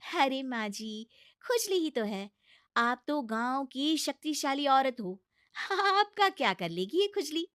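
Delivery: pleading daughter-in-law. Acted. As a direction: talk sense into a stubborn mother-in-law. Bahu mock-reassures. (ऊँची, मनाती हुई बहू की आवाज़)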